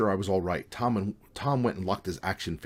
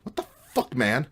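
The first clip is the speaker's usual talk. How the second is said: half-loud indignant protest; louder on the last word; startled protest; 5 semitones higher, 5 dB louder than usual. A narrator's reading. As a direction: protest as if just jumped. Startled protest at being grabbed.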